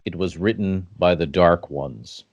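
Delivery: epic fantasy narrator. Acted. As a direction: read it like a dark legend. Ominous legend intro over music.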